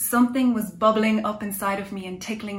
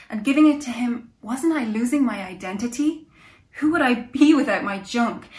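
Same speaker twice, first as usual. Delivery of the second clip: rising panic; 5 dB louder than usual. Acted. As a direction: voice climbing louder in alarm. Narrator describes rising panic.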